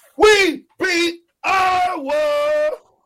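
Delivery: very high, swooping, rising, drawn-out shout. Celebrating a win over Iowa: yelling. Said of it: "You yelled it pretty loud".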